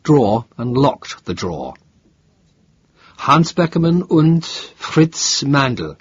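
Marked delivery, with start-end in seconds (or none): 3.2-6.0 slow, weighty order from the minister, higher; stern minister. A narrator's reading. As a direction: measure each name out like a command. Minister gives the names.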